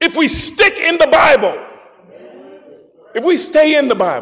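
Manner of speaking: fired-up, worked-up, impassioned pulpit preaching voice. Appealing to the universal church to return to scripture, the speaker gets worked up. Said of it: "let me calm down".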